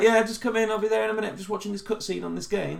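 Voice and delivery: high-pitched son stalling his mum, voice dropping in volume as it goes; calling back to mum. Retold or imitated.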